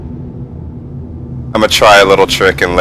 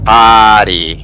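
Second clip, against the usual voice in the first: put-on lightly copied r-less accent on "Party"; imitated accent. Teasing a friend for their accent, imitated r-less "Party". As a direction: mimic the accent, "Party" as "pahty". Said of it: "I like your accent".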